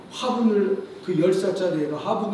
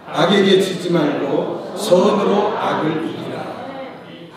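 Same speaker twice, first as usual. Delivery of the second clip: louder, slow recitation of the verse; loud reading aloud; 5 dB louder, slower than usual. Real, not acted. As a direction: read it out big and slow. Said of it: "큰 목소리를 읽어보죠". (큰 소리로 천천히 봉독)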